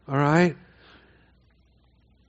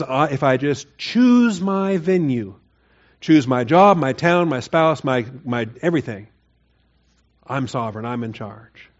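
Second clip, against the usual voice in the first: smug self-assurance; 3 dB louder, slower than usual. Retold or imitated. Preacher voicing people who think they're sovereign, smug and slow. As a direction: savor every choice like a self-made king. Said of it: "there's a human tendency that says".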